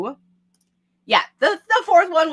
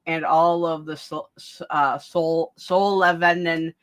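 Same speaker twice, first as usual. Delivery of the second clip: wearing vampire fangs; 7 semitones lower than usual. Real, not acted. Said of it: "harder to pronounce with my fangs in".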